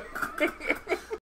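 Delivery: breathy burst of laughter; laughing. Real, not acted. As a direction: laugh out, airy and high. Laughs at the joke.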